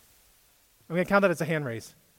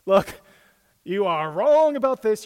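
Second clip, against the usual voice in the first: Peter's loud protest; 3 semitones higher, 8 dB louder than usual. Acted. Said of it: "and he says".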